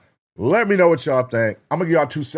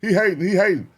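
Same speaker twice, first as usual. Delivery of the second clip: mock hyped fan; 6 semitones higher than usual. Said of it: "people who like".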